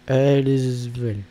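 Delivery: Aelesvel drawn out slowly in a mock dragon-tongue accent. Showing viewers the village name in his mock dragon accent. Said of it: "Désolé pour mon magnifique accent, euh, dragonique".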